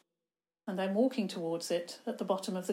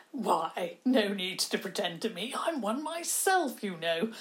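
put-on eccentric old man; 3 dB louder than usual.

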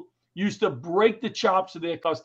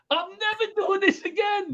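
upset vow; 12 semitones higher than usual. Retold or imitated. Vowing to quit after heckle.

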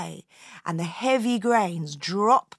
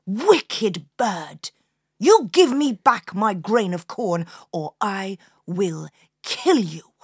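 louder, scolding threat; angry farmer's wife; 4 dB louder than usual. Acted. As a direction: grab the crow and threaten it.

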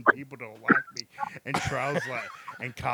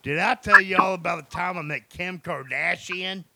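higher, louder show-off story opener; bragging storyteller; 6 semitones higher, 6 dB louder than usual. Retold or imitated. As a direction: boast it like a big story. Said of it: "I might as well have just said".

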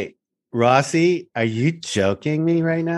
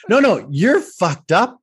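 emphatic, slowed dismay; 6 semitones higher than usual. Real, not acted. Friend reacting to wounds.

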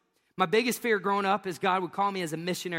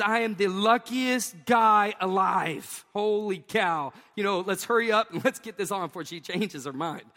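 louder, eager and giddy; mock giddy thought; 3 semitones higher, 5 dB louder than usual. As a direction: rush through it like you can't believe your luck. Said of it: "my second thought was".

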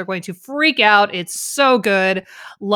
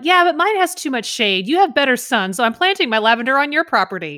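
breezy neighbor; 3 semitones higher than usual. Retold or imitated. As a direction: shrug it off cheerfully. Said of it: "neighbor answers husband".

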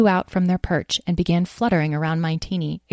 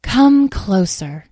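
slow regal command; 3 semitones higher, 5 dB louder, much slower than usual. Acted. Fairy queen commands.

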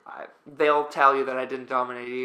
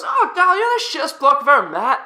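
rapid high, loud Aussie rant; screaming Marcus; 12 semitones higher, 8 dB louder, faster than usual. Retold or imitated. Teammate berating him over a game, screaming. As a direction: yell it fast in mock outrage. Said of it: "screaming and yelling".

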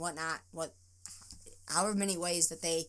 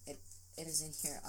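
blubbering; 4 semitones lower, 10 dB quieter, faster than usual. Real, not acted. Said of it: "I cannot believe how emotional I'm getting".

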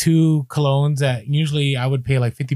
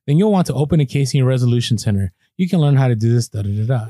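reading the email. Retold or imitated. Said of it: "you get this email that says".

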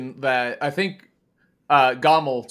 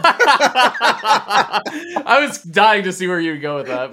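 laughing through the words, higher and louder; cracking up; 8 semitones higher, 7 dB louder, much slower than usual. Real, not acted. Host reacting to a friend's surprise subject, cracking up.

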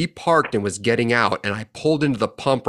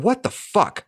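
high indignant yell; 11 semitones higher, slower than usual. Retold or imitated. Chewing out the reckless driver.

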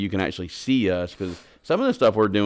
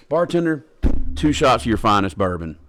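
calling out to the bartender, louder; confident order; 2 semitones higher, 6 dB louder than usual. Acted. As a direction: order like a big shot at the bar. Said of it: "they go in there".

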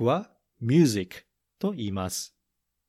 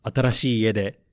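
音楽に乗せてゆっくり優しく読み聞かせる; 子どもに絵本の結末を語るように; 読み聞かせ. A narrator's reading. Reads the story's ending over music. (絵本の最後を子どもたちへ読み聞かせる、ゆっくりした語り口)

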